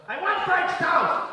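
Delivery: put-on high, loud, slow child whine; whiny kid demand. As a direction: demand it like a spoiled toddler. Daughter demanding breakfast.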